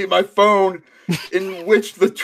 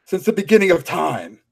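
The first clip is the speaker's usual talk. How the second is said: Kratos voice; 3 semitones lower than usual. Pretend. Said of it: "Now you sound like Kratos".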